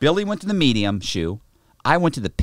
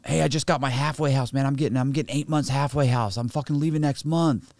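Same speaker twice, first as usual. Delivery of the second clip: higher-pitched voice, lightly acting a pleased inmate; mildly excited announcement; 5 semitones higher than usual. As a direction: share good news, a touch eager. Fellow inmate announcing his release.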